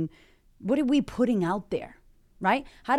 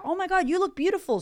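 much higher, delighted gush; gushing compliment; 10 semitones higher, faster than usual. Pretend. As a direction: gush over a stranger's looks. Compliments a stranger.

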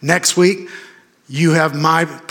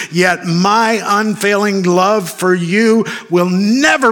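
emphatic scripture reading; 6 semitones higher, 3 dB louder, slower than usual. Real, not acted. Preacher declaiming a promise from scripture.

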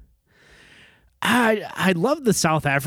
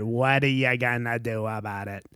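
mumbled Chicago accent, words mashed together; a lazy, garbled Chicago "What are you gonna do about it?". Shown as a demonstration. Replaying the phrase to mock its mush, mumbled Chicago. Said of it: "is kinda garbage if you play it over".

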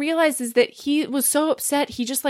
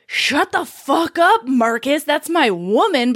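mock angry. Joe telling Marcus off over Lenny, acted mad. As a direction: act out a mad boyfriend telling off his brother. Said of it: "he's so goddamn mad".

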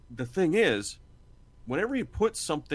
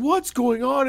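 confused question; 10 semitones higher, 6 dB louder than usual. Retold or imitated. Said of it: "the player's going".

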